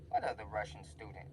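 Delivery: low, soft wondering to himself; puzzled aside. Retold or imitated. Student listening by the door, quietly puzzled. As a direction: ask it under your breath.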